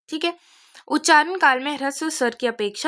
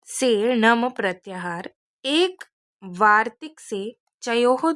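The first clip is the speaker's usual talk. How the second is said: reading the Sanskrit rules out slowly, syllable by syllable; slow recitation; slower than usual. Shown as a demonstration. Teacher reading the rule from the page to students, slow and measured. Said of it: "यहाँ पर देखो क्या लिखा है".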